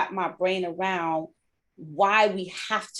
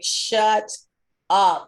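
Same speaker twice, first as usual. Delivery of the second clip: louder, grumpy mock shout; mock annoyed snap; 6 dB louder than usual. Sleepy line sisters telling her to hush, mock loud. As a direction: snap at the chatterbox. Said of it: "they'd be like".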